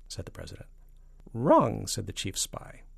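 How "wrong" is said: falsetto. A narrator's reading. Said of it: "and a falsetto voice".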